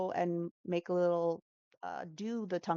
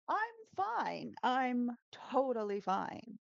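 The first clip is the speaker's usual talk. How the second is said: raised, slow strained I'm fine; Ross tone demo; 5 semitones higher, slower than usual. Shown as a demonstration. Teacher showing students how Ross says I'm fine, a little higher and slower. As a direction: show students the high, tense I'm totally fine. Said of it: "in this tone".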